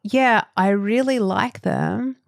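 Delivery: slow, drawn-out retold compliment; imitated hairdresser's compliment. Retelling hairdresser's painful compliment, slow imitation. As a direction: imitate a sweetly patronising remark, slowly. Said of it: "what she said was".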